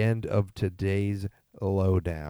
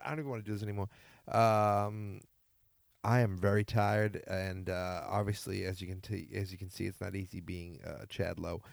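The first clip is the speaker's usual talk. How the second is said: dejected; 6 dB quieter than usual. Acted. Tired, defeated after failed call.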